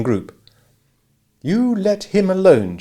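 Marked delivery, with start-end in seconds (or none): 1.4-2.8 icy, slow warning; coldly. A narrator's reading. Abra warning the giggling group, cold slow warning. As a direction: chill the gigglers with each word. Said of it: "she said coldly".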